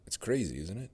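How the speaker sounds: ordinary delivery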